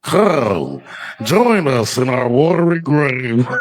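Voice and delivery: mock spooky ghost voice calling to Carl. Shown as a demonstration. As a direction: call Carl down like a drowned ghost. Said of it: "my impression of the dead people".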